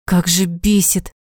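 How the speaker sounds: slow, exhaled mild fury; furious exhale. A narrator's reading. Sanya venting his anger at Zhenya, slow mild exhale. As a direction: breathe out the anger slowly. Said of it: "выдохнул разъярённый Саня".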